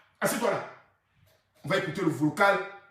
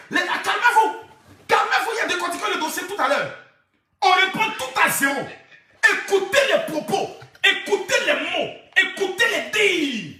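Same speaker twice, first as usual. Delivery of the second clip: higher, laughing announcer voice; laughing hype; 6 semitones higher than usual. Real, not acted. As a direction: hype the crowd through laughter. Parle en riant, voix haute. (annonce en riant, voix aiguë)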